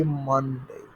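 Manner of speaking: "Monday" opened with a drawn-out "mun". Shown as a demonstration. Teacher shows how we say the weekday, "Monday" drawn out as "mun-day". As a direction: stretch the first syllable of "Monday" as "mun". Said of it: "M U N".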